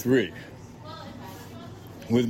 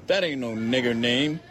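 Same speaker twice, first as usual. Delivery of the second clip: higher, scoffing redneck voice; scornful bigot; 5 semitones higher than usual. A narrator's reading. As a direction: dismiss the name with scorn. Narrator voices the scornful man.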